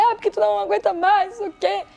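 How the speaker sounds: high-pitched mock complaint; retold complaining. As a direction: re-enact griping in a marital row. Retold row with husband while crying. (reclamação encenada, em tom agudo)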